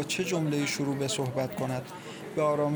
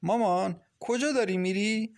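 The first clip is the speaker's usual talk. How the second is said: plaintive, higher-pitched question to a mother; sorrowful; 6 semitones higher than usual. A narrator's reading. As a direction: ask it with mild sorrow. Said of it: "با صدای حزین گفت".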